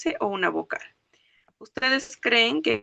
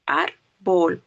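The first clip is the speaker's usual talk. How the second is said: "Árbol" broken in two, Ár hit harder; stress on first syllable; 4 dB louder than usual. Shown as a demonstration. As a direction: punch the Ár of "Árbol", then a separate bol. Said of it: "sílaba que se pronuncia más fuerte".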